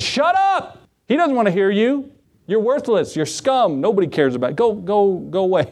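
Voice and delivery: mock harsh rebuke. Crowd rebuking blind beggar.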